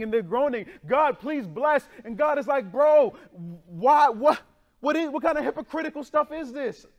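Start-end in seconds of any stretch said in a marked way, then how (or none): 0.9-1.9 slow, higher mock plea; mock whiny plea. Pastor mocking worshippers' fake plea, slow and higher. 2.7-6.9 loud, higher incredulous outburst; exasperated God. Retold or imitated. God reacting to hypocritical worshippers, loud and disbelieving.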